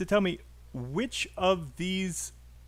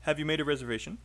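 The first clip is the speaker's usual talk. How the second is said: quick "Have you", weight on "made" and "reservation"; listen-and-say model, "Have" unstressed, rising "reservation"; much faster than usual. Shown as a demonstration. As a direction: model the question with "Have" kept light, rising at the end. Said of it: "have is not stressed".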